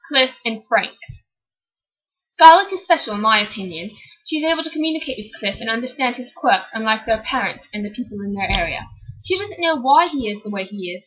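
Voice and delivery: amateurish put-on British reading voice; bad British accent. Sister reads Rosie's book review, bad British accent. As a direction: read it out in a shaky attempt at British. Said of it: "She has the worst British accent of all".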